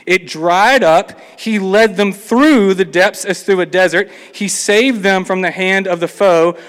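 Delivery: preacher reading verses out with conviction; scripture reading. Acted. Reading psalm aloud in sermon.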